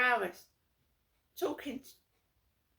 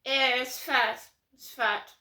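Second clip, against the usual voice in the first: loud mock-posh jibe; posh sneer; 3 semitones higher, 6 dB louder than usual. Posh mates mocking her weight, loud snooty jibe. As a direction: sneer it like a snob. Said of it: "this is how posh people, uh, antagonise".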